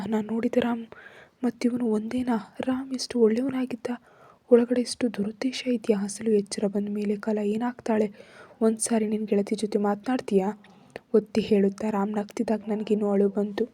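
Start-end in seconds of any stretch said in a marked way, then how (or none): none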